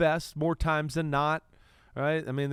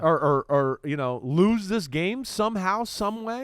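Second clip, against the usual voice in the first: louder, worked-up fan disbelief; acting out a viewer's alarm at a slipping lead; stammering, loud mock disbelief; incredulous; 3 semitones higher, 5 dB louder than usual. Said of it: "another one where you went".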